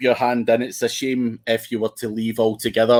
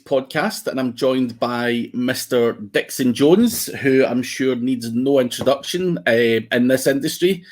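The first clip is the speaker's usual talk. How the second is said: posh Queen's English. Real, not acted. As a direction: put on your poshest Queen's English to introduce the guest. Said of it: "that's the poshest I've ever heard you speak".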